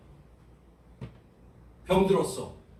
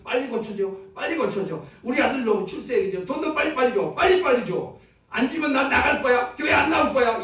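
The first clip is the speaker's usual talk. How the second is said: building from demanding to loud, higher petulant threat; demanding whiny prayer; 5 semitones higher, 4 dB louder than usual. Retold or imitated. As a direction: nag God like a spoiled child, rising to a louder threat. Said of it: "이럴 거예요".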